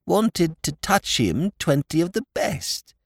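slow, guileless lordly voice; matter-of-fact, as if obvious; explaining his motive, slow and simple; simple explanation. A narrator's reading. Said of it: "he explained simply".

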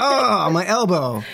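mock pained yelp, high; stubbed toe. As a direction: pretend pain, clutching the wrong spot. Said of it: "in showing how I stubbed my toe".

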